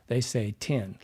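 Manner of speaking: TIN with a short i as in "tin"; Midwestern vowel. Shown as a demonstration. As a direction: say "tin" where ten is meant, Midwestern style. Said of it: "more Midwestern American sound, instead of saying".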